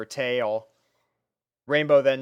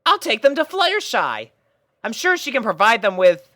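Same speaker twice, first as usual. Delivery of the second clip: higher, louder pony voice taking charge; a pony captain lining up her troops; higher pony voice addressing puppies; Rainbow Dash voice, bossy and bright; 10 semitones higher, 7 dB louder than usual. A narrator's reading. Rainbow planning.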